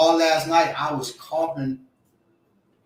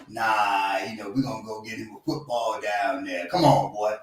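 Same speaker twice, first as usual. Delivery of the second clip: gruff father shout; 5 semitones lower than usual. Retold or imitated. Father refusing son's book.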